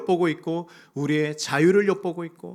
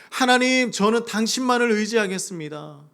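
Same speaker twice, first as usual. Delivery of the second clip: fervent prayer; 5 semitones higher, 4 dB louder than usual. Acted. Voiced prayer of trust.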